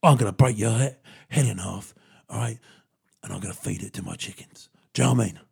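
mock hard-nut threat. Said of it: "Jason says".

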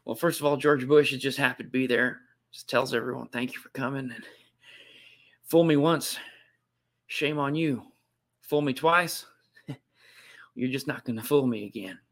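folksy presidential impression; halting Texan politician with a little chuckle; George Bush. Host as the president fumbling a proverb, amused Texan impression. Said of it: "do a good George Bush".

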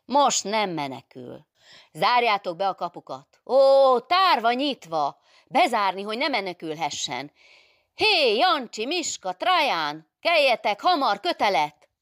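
high, loud calls across a courtyard; yelling commands, names stretched out; shouted alarm orders. Acted. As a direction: rouse sleeping men with urgent shouts. Adél shouts orders to men outside.

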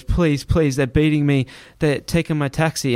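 understated imploring, no sobs; retold begging. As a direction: imitate a man begging for mercy. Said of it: "started begging to me and crying".

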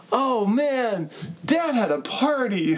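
put-on high, drawn-out little kid voice; little son. Co-host quoting the son surveying the wrecked house, high kid voice. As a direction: imitate a small boy taking in the mess. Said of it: "his little son is, like, looking around".

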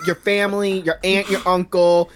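high-pitched hammed-up menace; mock threatening tirade. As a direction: list each victim in comic rage.

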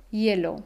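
"hielo" dicho "yelo", cayendo al final; hie como ye. Shown as a demonstration. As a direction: empieza "hielo" con sonido ye. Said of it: "escuchamos ese sonido ye". ("hielo" pronunciado "yelo")

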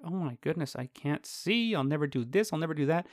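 soft, hushed quoted despair; mock despair. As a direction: voice a quiet inner lament. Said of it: "feelings where it's like".

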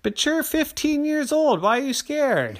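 gently mock the big kid; mom voice. Mom reminds fifteen-year-old Terry, lightly exasperated. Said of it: "his mommy said".

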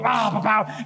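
spoken tank-firing sounds; imitated tank noise. Preacher mimicking a Sherman tank rolling over people, mock blasts.

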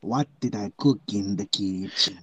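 mock Eastern European accent. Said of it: "Eastern Europe".

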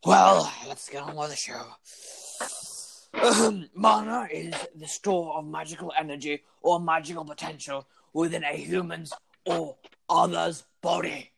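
pompous lecturing teacher voice; florid victorian lecturer. Acted. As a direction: lecture grandly like an old schoolmaster. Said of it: "that voice is so painful".

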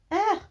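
short, high, loud "eh"; high dismissive "eh". Retold or imitated. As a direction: toss out a high-pitched "eh". Acting out her offhand reaction.

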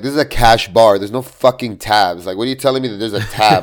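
heated, swearing at a customer; mild mock fury at a scammer; retold angry rant. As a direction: chew her out like a mad vendor. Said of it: "At that point, I got mad".

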